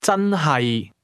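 真係 starting high and level, then dropping low; high-to-low tones. Shown as a demonstration. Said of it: "starts with a high level tone, then drops".

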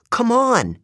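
high-pitched urging call; urgent command. A narrator's reading. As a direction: get them moving at once. Annabeth urges them to move.

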